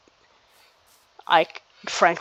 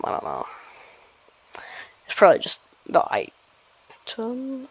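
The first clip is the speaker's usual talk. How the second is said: whispering; 5 semitones higher than usual. Real, not acted. Muttering to himself while playing.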